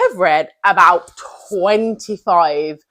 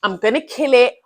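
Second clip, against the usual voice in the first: fast, louder gassing yourself up; hyped-up; 3 semitones higher, 5 dB louder, much faster than usual. Retold or imitated. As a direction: rattle it off like a pumped-up pep talk. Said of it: "Like, not".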